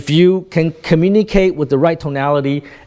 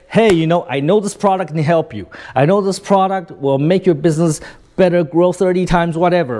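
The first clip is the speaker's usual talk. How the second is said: assured, flowing sales pitch; confident salesperson. Shown as a demonstration. Salesperson pitching a product to a prospect, confident. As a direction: pitch it with easy conviction. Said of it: "When you say it like that, you know, it's, it's, you're, you're showing confidence".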